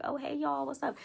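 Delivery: high-pitched hello to friends; retold greeting.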